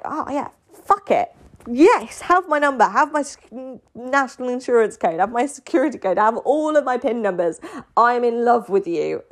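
high giddy gushing; mock eager. Girl giving her number to her crush, high and giddy. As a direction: throw everything at him, giddy.

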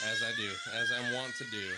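high shout. Acted. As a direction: squeal it out high. High shout over crying child.

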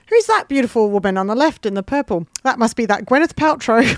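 put-on a light English accent for her Aussie nan. Nan pointing at herself in a selfie, in a light English accent. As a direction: give the nan a mild English lilt, only lightly put on. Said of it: "I've weirdly given her an English accent".

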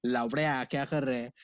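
full-on local Hindi accent. Shown as a demonstration. Host showing his local side, in full-on Hindi accent. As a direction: go all in on street Hindi accent. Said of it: "It's either full-on".

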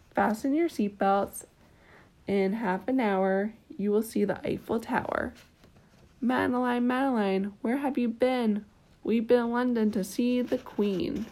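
gentle bedtime story reading; storybook narration with small lilts; reading to a child. A narrator's reading. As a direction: read it like a picture book at bedtime. Reading a picture book aloud.

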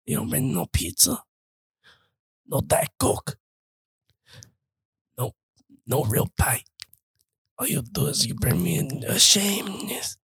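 hushed, raspy mock Godfather. Doing The Godfather for friends, hushed mock mob boss. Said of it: "Godfather, though".

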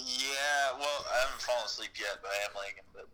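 phone speaker. Real, not acted. Caller on speakerphone.

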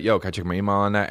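fast breezy Yo, can I check my email on that?; playful quick aside; casual joking delivery. Shown as a demonstration. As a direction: toss it off quick like a joke. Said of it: "It used to be like".

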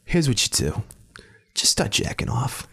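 mock-intimate stage whisper; whispered instruction. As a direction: imitate her in a hushed whisper. Voicing the woman's instructions in a story.

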